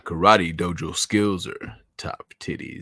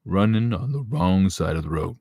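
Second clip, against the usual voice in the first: a hint of a smooth soul-singer croon on "running on the wrong side of the road"; 4 dB louder than usual. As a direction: keep the mock radio-host glide, only lightly voiced. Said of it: "I'm pretending to be a soul singer".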